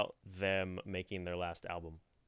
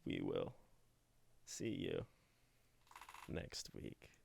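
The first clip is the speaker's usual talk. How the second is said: soft outro sign-off; 8 semitones lower, 13 dB quieter, slower than usual. Shown as a demonstration. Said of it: "my whole outro that I usually do".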